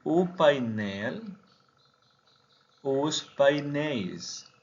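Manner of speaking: "painéis" lento, con "eis" final abierto; "os painéis" dicho "us painéis", despacio; pronunciación portuguesa. Shown as a demonstration. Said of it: "sustituimos la L por I S". (plural portugués lento y claro)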